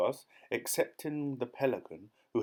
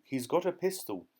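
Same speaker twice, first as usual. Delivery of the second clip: alarmed shout; 5 semitones higher than usual. A narrator's reading. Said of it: "shouted the Duke".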